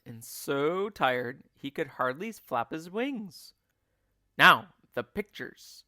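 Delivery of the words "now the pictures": loud eager call; cried out. A narrator's reading. Mugglewump calling to the birds, loud and eager. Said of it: "cried Mugglewump".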